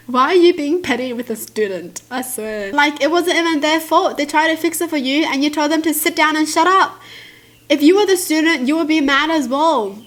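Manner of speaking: building into a loud rant; calm turning angry. Real, not acted. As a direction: scold the teacher, getting heated. Ranting at petty teacher.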